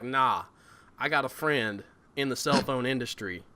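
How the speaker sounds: put-on easy low-key Southern accent. Player voicing Leslie refusing Herschel, Southern accent. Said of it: "I can do a southern accent all, all day long".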